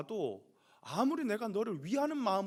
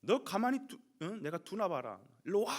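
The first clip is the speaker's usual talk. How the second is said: angry father; 3 dB louder than usual. Acted. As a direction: act out a father threatening his son. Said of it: "화가 머리 끝까지 났습니다". (화가 난 아버지처럼 크게 호통)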